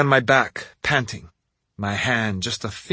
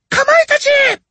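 even higher, louder summons; impatient call; 9 dB louder than usual. A narrator's reading. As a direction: call again, losing patience. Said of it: "she called again".

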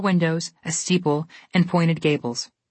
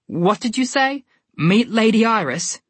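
rude mocking; 5 semitones higher, slower than usual. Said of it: "with a rude laugh".

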